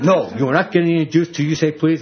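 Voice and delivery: firm refusal. Retold or imitated. Retells firmly refusing his son.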